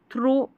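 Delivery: 'थ्रो' with an O vowel; wrong reading. Shown as a demonstration. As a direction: say थ्रो as students misread it, with O. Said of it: "वो बिल्कुल गलत है". ('थ्रो', ओ स्वर वाला गलत उच्चारण)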